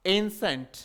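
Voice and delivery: एंसेंट said as "EN-sent", two syllables; correct pronunciation of एंसेंट. Shown as a demonstration. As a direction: model the word एंसेंट as "ensent". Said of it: "क्या होता है phonetic transcription इसका".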